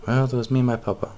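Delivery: a touch of naive cheer; young cat lady. Acted.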